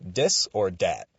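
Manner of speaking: "Dis" and "Dat" said with a D instead of th. Shown as a demonstration. Explaining the segment name, th turned into D. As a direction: swap the th for a firm D in "Dis or Dat". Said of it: "with a D on the front".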